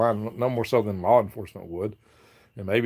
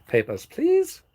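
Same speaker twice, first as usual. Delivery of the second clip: much higher, louder mock checkpoint guard; mock officer; 4 dB louder, slower than usual. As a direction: ham it up like a border guard asking for papers. Mock checkpoint officer demanding papers.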